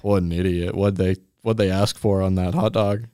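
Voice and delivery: low, mock-official phone voice; hint of police officer. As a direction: question a caller as a comic policeman. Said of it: "I'm calling the police".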